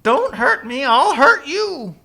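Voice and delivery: high-pitched, hammed-up threat; acted-out fuming warning; mock anger. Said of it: "Balaam gets mad".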